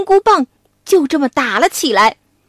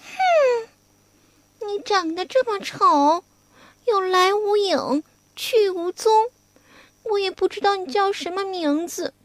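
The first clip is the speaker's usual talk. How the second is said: coy maiden; 4 semitones higher, 5 dB quieter than usual. Acted. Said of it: "Wukong playing Cuilan".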